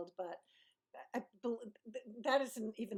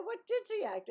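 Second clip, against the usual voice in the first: high, squeaky protest; high-pitched playful disbelief; mock indignant; 11 semitones higher, 5 dB louder than usual. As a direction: act innocently affronted, pitched way up. Acts out her own indignant comeback.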